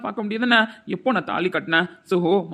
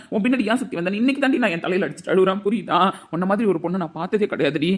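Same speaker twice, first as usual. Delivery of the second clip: normal talking voice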